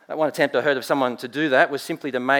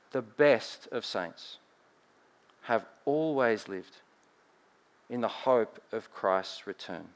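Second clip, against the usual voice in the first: slow, soft repeat; 3 semitones lower, 7 dB quieter than usual. Shown as a demonstration. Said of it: "please hear this".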